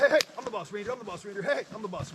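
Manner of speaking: loud, high commanding shout; assertive yell. Shown as a demonstration. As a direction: boss the reindeer around loudly. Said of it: "you can yell at them and tell them you're the boss".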